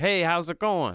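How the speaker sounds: high, drawn-out delivery. Quoting a film star from one of her movies: Sandra Bullock impression. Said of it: "She was like".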